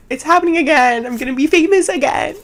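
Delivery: high-pitched, giddy retold exclamation; hammed-up high-pitched excitement; mock-excited realization. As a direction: play up a breathless, high thrill of fame. Acts out gasping reaction to going viral.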